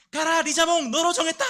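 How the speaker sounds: high, loud shouted command; trainer's battle cry. Acted. Sergeant bursting in as a Pokémon trainer, shouting his command. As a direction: yell it like an anime monster trainer.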